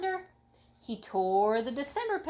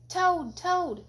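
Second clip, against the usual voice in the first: high calling shout, louder; 10 semitones higher, 4 dB louder than usual. A narrator's reading. Frog shouting at Toad's door to wake him. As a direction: call loudly to wake a friend. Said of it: "shouted Frog".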